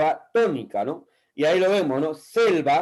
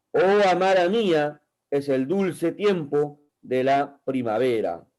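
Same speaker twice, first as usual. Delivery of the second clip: measured declamation with pauses between lines; poem recitation. Acted. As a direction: recite the verse phrase by phrase, deliberately.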